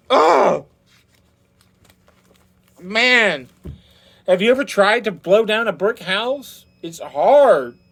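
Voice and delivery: out of breath. A narrator's reading. Exhausted wolf after blowing.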